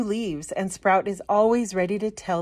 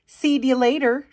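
higher, bright farewell call; a little plant waving off; lightly voiced cheerful sprout; cheery goodbye; 6 semitones higher, 4 dB louder than usual. Sprout leaving home.

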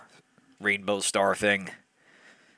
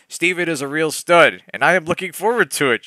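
higher, fast giddy read of the line; eager; 7 semitones higher, 6 dB louder than usual. A narrator's reading. Yvonne gushing about her massage, giddy and eager. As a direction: gush about the stud, rushing ahead. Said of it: "she added eagerly".

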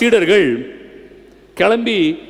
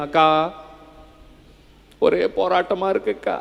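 soft, quicker-fading mock grumble; mock complaining; 3 semitones lower, 6 dB quieter than usual. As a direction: act out moaning to the neighbour. Mimics complaining to neighbour woman.

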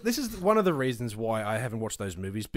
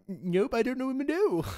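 mock blunt denial; 9 semitones higher than usual. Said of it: "And I'm like".

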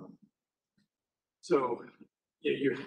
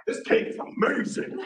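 mom's stunned whisper; 12 semitones higher, 5 dB louder than usual. Retold or imitated. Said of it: "just like".

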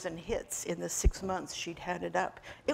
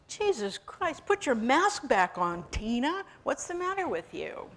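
exasperated; 5 semitones higher than usual. Acted. Brad scolding Tina.

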